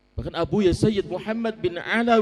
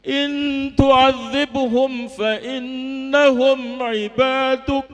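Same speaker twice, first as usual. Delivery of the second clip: weeping harder; 3 semitones higher, 4 dB louder than usual. Retold or imitated. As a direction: let the crying grow through the verse. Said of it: "Beliau tambah menangis". (membaca ayat sambil makin menangis)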